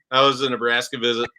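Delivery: flat, bored monotone. Retold or imitated. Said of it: "my very monotone voice of".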